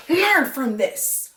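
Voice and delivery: high, slow scolding; slow mock lecture. Lecturing Clay to learn his lesson, slow and mocking. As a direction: lecture Clay slowly and sarcastically. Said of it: "to dumb Clay".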